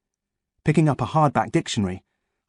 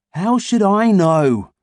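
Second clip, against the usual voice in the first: slow, high, irritated retort; drawn-out, annoyed boy voice; 9 semitones higher, 6 dB louder, much slower than usual. A narrator's reading. Ian snaps back.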